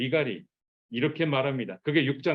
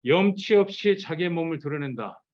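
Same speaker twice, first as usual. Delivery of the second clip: 염치 없이 said higher and louder, mocking; sarcastic; 4 semitones higher, 4 dB louder than usual. Michal scorning David's dance, sarcastic. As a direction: spit out 염치 없이 with scorn. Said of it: "이렇게 지금 비꼬아서 얘기하는 거예요".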